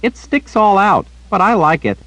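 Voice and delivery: put-on high, earnest little girl chattering; bright-eyed child repeating gossip to the old wizard. A narrator's reading. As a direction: pitch it up like a young girl telling news. Child Rachel voiced.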